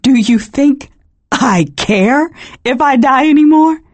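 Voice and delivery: breathless and high, winded from laughing; gasping half-laugh; gasped out. Acted. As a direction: force the words out between gasps. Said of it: "I had to gasp out the next words".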